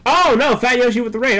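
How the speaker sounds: high, loud alarmed cry; startled outburst. Real, not acted. Streamer surprised by an incoming raid, startled outburst. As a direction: burst out as if caught off guard.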